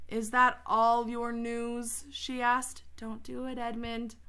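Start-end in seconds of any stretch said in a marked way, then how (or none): 0.1-2.1 slow, sly menacing question; cruel and slow. Acted. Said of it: "slow, cruel smile". 3.0-4.2 soft warning. Real, not acted. Teacher warns character softly.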